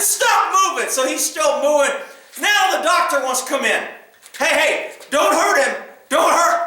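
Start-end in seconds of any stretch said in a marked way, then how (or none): 0.0-0.9 raised-pitch retold order; exasperated command. Officer commanding struggling suspect. 4.4-6.6 mild mock plea, a bit raised; protesting doctor. Doctor pleading, acted out.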